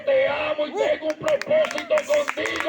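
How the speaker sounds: the voice of God calling out to a man about to jump. Retold or imitated. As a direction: call his name slowly like God speaking. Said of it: "escuché la voz de Dios varias veces que me dijo".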